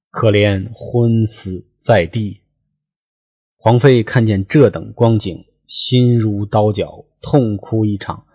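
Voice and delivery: measured storyteller's reading voice, lines drawn out; 说书人朗读古文; classical story reading. Acted. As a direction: read the old novel aloud like a storyteller. Reads classical novel text aloud.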